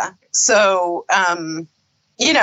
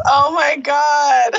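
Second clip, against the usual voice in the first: excited; 4 semitones higher, slower than usual. Real, not acted. Excited outburst.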